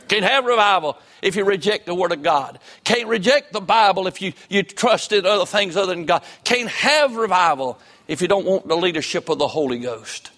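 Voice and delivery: insistent revival-preacher delivery; impassioned preaching. Real, not acted. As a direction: drive each warning home to the congregation. Preaching at full force.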